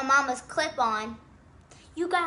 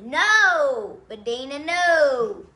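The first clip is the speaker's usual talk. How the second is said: loud mock outcry; dramatic protest; 5 dB louder, much slower than usual. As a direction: shout no in protest.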